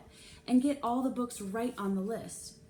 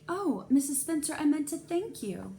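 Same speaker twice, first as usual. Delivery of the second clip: high, louder sugary voice; sweet needling; 7 semitones higher, 5 dB louder than usual. A narrator's reading. Mrs Jones thanks Mrs Spencer with sweet sarcasm. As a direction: thank her with a sting.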